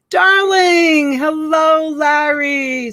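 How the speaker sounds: high, loud darling hello; gushing greeting. Real, not acted. Host greeting a regular in delighted voice. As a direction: call out a fond hello.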